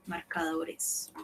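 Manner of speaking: marcadores whispered, slow. Shown as a demonstration. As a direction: breathe marcadores out slowly. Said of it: "modelling words to a class".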